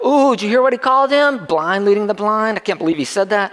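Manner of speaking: mock-scandalized onlooker gasping at the insult; gossiping crowd. Crowd member gossiping to a neighbour, mock scandalized. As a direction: play a shocked bystander whispering to a neighbour. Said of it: "people ... stepping back going".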